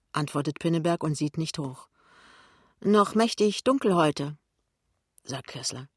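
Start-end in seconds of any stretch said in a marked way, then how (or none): 2.8-4.4 slightly higher, slower small talk; a needling colleague's drawn-out opener; lightly voiced colleague. Colleague opening small talk with Pinneberg, lightly teasing.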